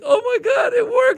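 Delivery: shouting that the trick worked; astonished outcry. Retold or imitated. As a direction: blurt it out in disbelief. Amazed that the cussing worked.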